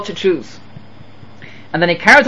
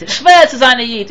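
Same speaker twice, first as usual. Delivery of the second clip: higher-pitched mock kvetch; grumbling complaint; 4 semitones higher than usual. Father grumbling through his mitzvot, complaining. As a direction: moan it as a put-upon complainer. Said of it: "he mumbles and he grumbles and he complains".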